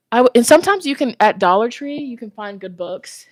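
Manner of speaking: winded, breathing hard; talking while short of breath. Real, not acted. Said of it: "I'm out of breath".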